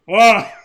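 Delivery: wild, loud high cackle; maniacal cackle. Acted. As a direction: cackle like a gleeful monster. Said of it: "cackling maniacally".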